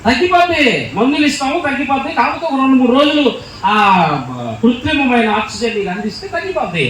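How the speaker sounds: calm him down like a kindly doctor; a lightly voiced doctor telling the billionaire not to cry; reassuring doctor. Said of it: "doctor గారు అన్నాడు".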